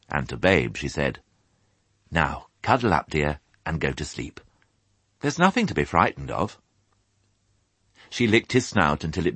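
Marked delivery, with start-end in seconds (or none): 2.1-6.6 gentle bedtime reassurance; tender mother. Acted. Mother dog settling piglet to sleep, tender.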